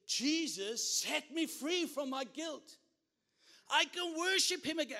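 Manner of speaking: high, loud acted shout of release; jubilant cry. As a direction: cry it out as a freed woman praising. Acting woman's joyful release from guilt.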